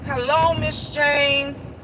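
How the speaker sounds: slow, stretched-out polite hello; drawn-out greeting. Retold or imitated. Showing the greeting the guest never gave, drawn out. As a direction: stretch each word of the greeting.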